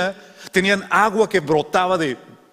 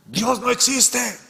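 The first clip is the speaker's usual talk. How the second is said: mocking reply; 8 semitones higher, much slower than usual. Atheist shouting back again.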